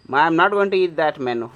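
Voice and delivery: loud, high protest to the cat; loud reassurance. Real, not acted. Owner loudly assuring the cat he won't eat the bird.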